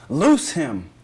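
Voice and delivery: loud, forceful order; firm command. Acted. Jesus speaking to the grave clothes, firm command. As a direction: order it done in two punched words.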